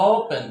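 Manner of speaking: "ওপেন" with a drawn-out oh-oo; long O. Shown as a demonstration. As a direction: stretch and round the first vowel of "ওপেন". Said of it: "ও দিয়ে বলে কি".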